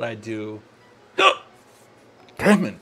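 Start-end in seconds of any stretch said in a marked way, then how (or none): 2.4-2.8 sudden loud hiccup, then swear; loud hiccup gasp. Real, not acted. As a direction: jolt of a hiccup into a curse. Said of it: "Sorry about the hiccups".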